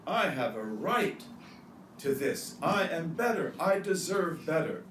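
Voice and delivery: acting out a self-important claim, emphatic; mock entitlement. Preacher voicing people who see themselves as masters, mildly entitled. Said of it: "they see themselves as makhdoom".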